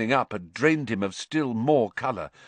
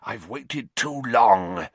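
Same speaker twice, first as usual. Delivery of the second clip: hissed menace; slower than usual. Acted. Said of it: "he hissed".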